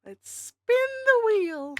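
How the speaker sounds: high, slow hyped call; excited announcer. Acted. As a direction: announce it like a game show. Announcing the spin.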